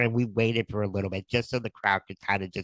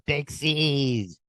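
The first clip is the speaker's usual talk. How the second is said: calling out; 7 semitones higher than usual. Retold or imitated. Equipment manager calls out across arena.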